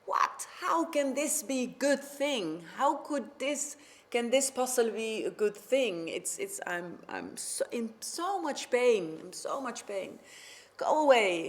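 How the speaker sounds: a king furious and in pain. Acted. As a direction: rage at the counselor through the pain. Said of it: "And the king was furious".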